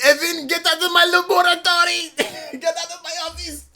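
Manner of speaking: high, loud shouted cartoon voice; gravelly old tycoon. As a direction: yell it like a cranky old boss. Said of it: "He's like".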